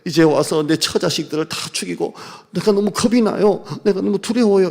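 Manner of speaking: lightly voiced fearful prayer; a hint of pleading fear; Jacob praying. Jacob begging God for help, mildly fearful. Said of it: "이런 기도입니다".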